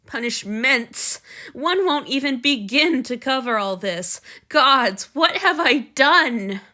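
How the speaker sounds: loud, anguished, rising to despair; frantic self-blame. Acted. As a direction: beat yourself up out loud.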